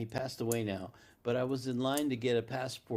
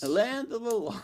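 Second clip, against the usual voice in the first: high, loud showy announcer title read; 10 semitones higher, 5 dB louder than usual. Pretend. Cohost echoes the show name, mock announcer style. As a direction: boom it out like a TV title card.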